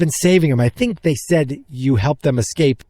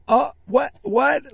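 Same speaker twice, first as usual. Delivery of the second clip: much higher, squeaky what of shock; stunned disbelief; 12 semitones higher, much slower than usual. Retold or imitated. Moviegoers at the abrupt ending, stunned disbelief. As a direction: yelp out a baffled what. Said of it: "the guy next to me and his son were like".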